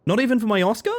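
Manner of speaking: high-pitched pleading question; mock plea. Streamer asks chat about crying for Oscar, mock plea. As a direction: push it up high, playfully wounded.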